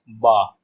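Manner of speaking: 'ब' alone, a b with an open vowel; B sound demo. Shown as a demonstration. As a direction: say 'ब' as an isolated letter sound. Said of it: "बी का सिर्फ एक ही sound है". ('ब' को अलग ध्वनि की तरह बोलें)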